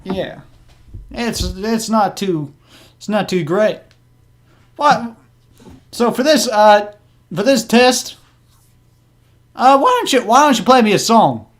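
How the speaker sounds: high-pitched chatty goblin. Acted. Goblin asking the bard for a song, high voice.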